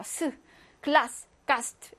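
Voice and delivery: 글라스, 가스트 with a hissed unvoiced s; voiceless s. Shown as a demonstration. Teacher shows final s, 글라스, 가스트 with voiceless s. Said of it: "이렇게요".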